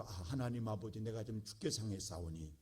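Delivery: low, subdued, overly proper prayer; softly measured mock-formal plea to God; mock polite prayer. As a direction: imitate someone praying with too much dignity. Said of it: "이렇게 한다고요?".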